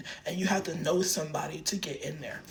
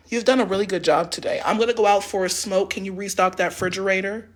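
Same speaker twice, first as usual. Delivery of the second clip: quickly switching to friendly boss praise; sudden sweetness; 2 semitones higher, 5 dB louder, faster than usual. Retold or imitated. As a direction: flip to nice, then hand out a chore. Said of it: "That's exactly how she was".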